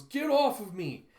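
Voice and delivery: loud, high, drawn-out cry; retold fighting yell. Fighter throws his attacker off, yelling.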